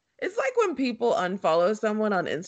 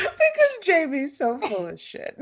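laughing through the words; can't keep a straight face; 5 semitones higher than usual. Real, not acted. Laughing at Jamie's post.

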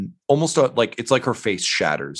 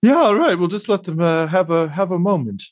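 sallow, tired figure; 7 semitones higher than usual. Acted. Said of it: "And he just says".

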